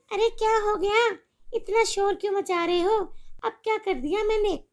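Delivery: making shopping plans with a friend; chatty mother on the phone. Acted. Mother answers husband.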